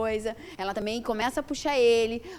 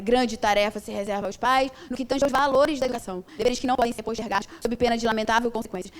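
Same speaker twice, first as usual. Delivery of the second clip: reading a quote; 3 dB louder than usual. Retold or imitated. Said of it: "que a Joana bota".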